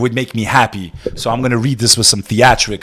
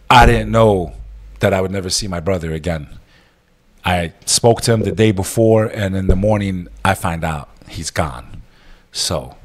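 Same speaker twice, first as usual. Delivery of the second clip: grieving; 3 semitones lower than usual. Real, not acted. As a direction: let the loss pull the voice down. Grief over lost brother.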